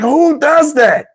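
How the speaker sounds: slow disbelief. Real, not acted. Reacting to silverware.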